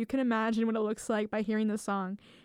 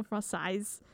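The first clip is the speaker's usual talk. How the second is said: French Canadian pronunciation. Shown as a demonstration. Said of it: "French Canadian accent".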